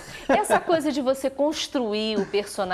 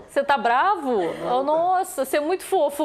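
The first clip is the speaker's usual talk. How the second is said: excited; 5 semitones higher, 4 dB louder than usual. Real, not acted. Host reacting to funny faces.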